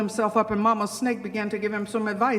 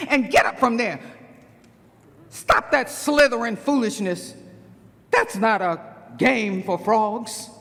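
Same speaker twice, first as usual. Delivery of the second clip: stern mother frog. Acted. Mama Frog warns her child about snakes, sternly. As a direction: warn the child gravely, leaning on each phrase.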